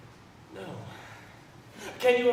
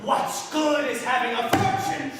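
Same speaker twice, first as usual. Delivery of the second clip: raised, forceful outpouring of grievance; impassioned lament; 3 semitones higher than usual. Acted. Brother complains to his sister about their miserly father, impassioned. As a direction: declaim it with mounting indignation.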